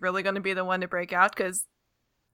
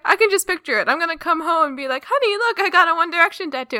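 mock breakdown; 7 semitones higher, 4 dB louder than usual. Retelling host's imagined homecoming.

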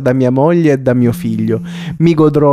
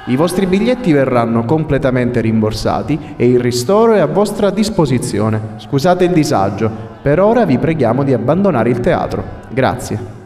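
formal announcement. Acted.

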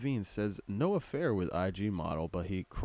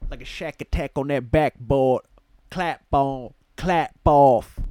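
hype voice; 4 semitones higher, 9 dB louder than usual. Acted. Hammed-up hype lines.

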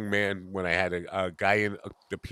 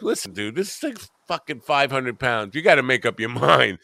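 retold exasperation, rising louder on the demand; exasperated retort; 5 semitones higher, 4 dB louder than usual. Young furniture mover to customer with heavy refrigerator, exasperated. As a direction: push back at an indecisive customer.

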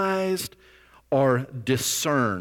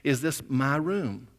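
put-on drunk old man; 5 dB quieter than usual. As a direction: draw it out softly, a hint of wobbly drunk. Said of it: "this old guy wobbling again".

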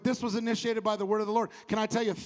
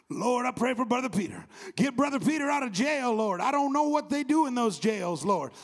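mock pleading prayer; 4 semitones higher, 4 dB louder than usual. Acting church members praying for Peter.

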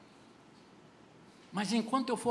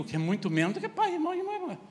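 ordinary talk

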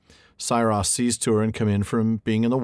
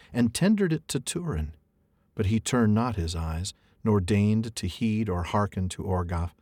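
reading verse aloud. Acted. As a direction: read it like an old epic. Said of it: "I get to read some alliterative verse".

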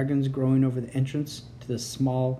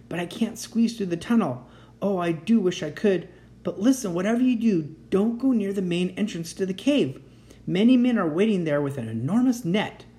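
put-on lightly higher earnest young dragon; urgent, reassuring young dragon; 4 semitones higher than usual. Voices young dragon Boris.

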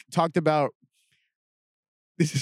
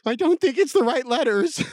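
higher, laughing through the quote; mock cop line with a laugh; 9 semitones higher than usual.

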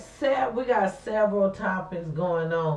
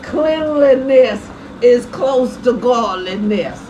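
quoting granny; 6 semitones higher, 7 dB louder, slower than usual. Retold or imitated. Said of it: "my granny used to say".

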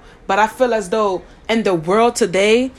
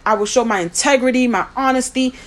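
mock professional voice; 2 semitones higher, faster than usual. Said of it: "we wanna talk like".

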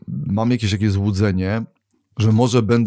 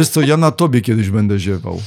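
laughing while teasing. Real, not acted. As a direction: tease with a laugh.

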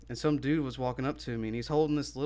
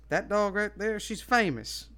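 higher proud-owner imitation; retold dog owner; 8 semitones higher, 3 dB louder than usual. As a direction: lightly voice a stranger boasting about his dog. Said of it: "And he was like".

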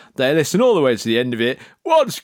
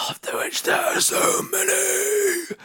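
slow, high-rising stage whisper; drawn-out whisper; 6 dB quieter, slower than usual. Acted. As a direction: whisper it slowly, stretching the last word. Comic aside after long list.

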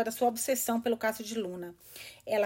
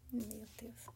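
quiet; 15 dB quieter than usual. Real, not acted. Reader reacts after bomb line.

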